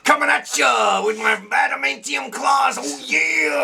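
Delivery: lightly gruff macho Wolverine growl. Pretend. Friend hams up Wolverine for the podcast, macho shout. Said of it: "That's gonna be my Wolverine voice".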